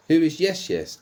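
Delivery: high, loud startled question; surprised shout. Acted. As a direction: blurt it out in shock. Character asks in surprise.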